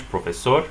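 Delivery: profesor stressed on the final -SOR; last-syllable stress. Shown as a demonstration. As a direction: say pro-fe-SOR, weight at the end. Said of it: "stress the last syllable".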